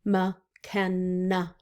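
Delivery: McKenna in three even beats, Mc, Ken, na; syllable split. Shown as a demonstration. Teacher to class, counting syllables. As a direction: tap out McKenna slowly. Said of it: "How many syllables in McKenna?".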